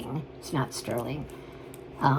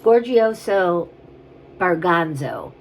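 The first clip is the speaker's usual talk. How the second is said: playful mock Italian; 5 dB louder, slower than usual.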